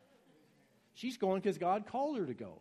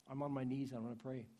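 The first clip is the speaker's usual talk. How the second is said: humble sincere prayer; 3 semitones lower, 5 dB quieter than usual. Pretend. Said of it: "get tired of being sick and say".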